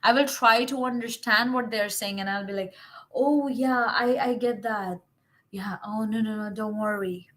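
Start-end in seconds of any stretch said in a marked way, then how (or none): 3.1-7.3 soft, understanding listener; kind, hushed reassurance; compassionate reassurance. Acted. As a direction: gently wave the worry away, softly. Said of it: "I will be compassionate towards them".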